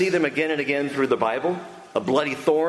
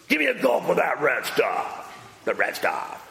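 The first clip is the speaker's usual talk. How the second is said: guzzling Esau. Retold or imitated. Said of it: "is gulp, guzzle, devour".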